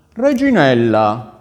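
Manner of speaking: loud, drawn-out call; prince calling his wife. Acted. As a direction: call her name long and loud. (richiamo sonoro e allungato)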